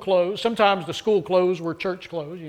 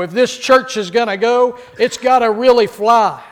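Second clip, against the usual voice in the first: preacher building up louder; preacher urging his congregation, getting louder; louder with gusto; 4 semitones higher, 7 dB louder than usual. Retold or imitated. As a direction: raise the voice like a rousing preacher. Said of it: "even louder with gusto".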